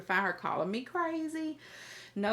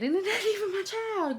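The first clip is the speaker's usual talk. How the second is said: much higher, incredulous outburst; amused outrage, pitched way up; getting mad; 12 semitones higher than usual. Real, not acted. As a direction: burst up high in disbelief. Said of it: "I'm getting mad".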